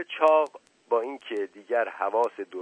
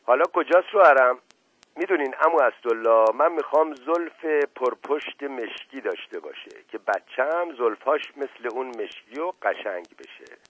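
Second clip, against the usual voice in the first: put-on childlike girl asking higher and louder at first; lightly voiced dreamy young bride; simple-minded, eager bride; 4 semitones higher, 5 dB louder than usual. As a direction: wish aloud like an innocent child. Narrator plays the childlike bride Qamar.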